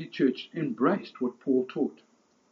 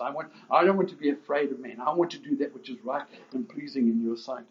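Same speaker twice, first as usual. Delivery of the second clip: earnest prayer. Acted. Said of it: "I'm crying out to God".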